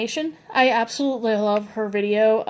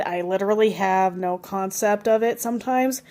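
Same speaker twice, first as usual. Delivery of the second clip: normal talking voice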